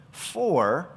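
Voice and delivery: a lifted, lingering "for" that hangs alone; stress on "for". Shown as a demonstration. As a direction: lean hard on "for" and stop. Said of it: "I emphasize that word".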